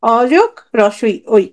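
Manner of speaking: অ যোগ রসই ওই said slowly, each part separate; slow spelled-out sum. Shown as a demonstration. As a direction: lay out the parts one by one for students. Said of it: "right?". (ধীরে ধীরে ভেঙে বলা, অ যোগ রসই ওই)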